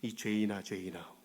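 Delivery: low, soft voice of God rebuking a sinner; a hushed, heavy divine reproach; God's rebuke. Retold or imitated. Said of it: "하나님이". (낮고 조용하게 꾸짖는 하나님 목소리)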